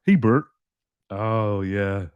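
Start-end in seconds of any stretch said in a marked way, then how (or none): 0.1-0.4 higher, louder mock call of Hey, Bert; playful mock shout of a school nickname; mock playground shout. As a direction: yell it like a cheeky schoolkid across the yard. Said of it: "people did shout".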